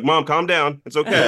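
loud, laughing calm-down; laughing reassurance. Retold or imitated. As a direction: soothe mom through laughter. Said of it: "I'm like".

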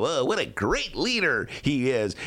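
mock pompous editorial praise; lightly voiced gushing editorial writer; a hint of a fawning newspaper voice. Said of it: "was that an impression of anybody in particular".

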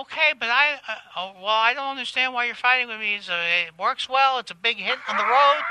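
defensive celebrity impression; Kathy Griffin. Comedienne arguing with Todd about her bit, in a defensive impression. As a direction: argue back in the comedienne's voice.

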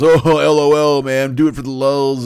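mock the guys who laugh everything off; jeering online bro impression; mocking internet troll. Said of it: "All those assholes who pretend".

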